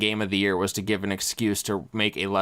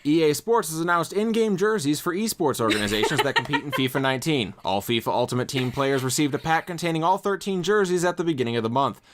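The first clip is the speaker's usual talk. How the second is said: news reporter voice; 4 semitones higher than usual. Acted. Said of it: "that's your news reporter voice".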